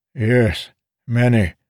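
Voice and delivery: high, grabbing beggar voice; eager old beggar. A narrator's reading. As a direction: reach for the coin, eager.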